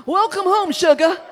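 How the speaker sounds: hearty welcome. Retold or imitated. Retold lady's hearty airport welcome.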